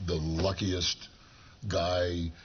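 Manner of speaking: low and slow, every word weighed; slow sincere. Real, not acted. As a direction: deliver it slow and tender. Slow sincere compliment to wife.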